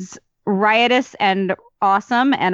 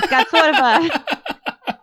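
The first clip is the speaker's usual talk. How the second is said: put-on Brooklyn accent; 3 semitones higher than usual. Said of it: "I meant to be doing this whole thing in a Brooklyn accent".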